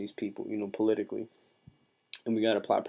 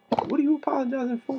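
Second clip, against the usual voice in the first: louder incredulous question; 6 dB louder than usual. Retold or imitated.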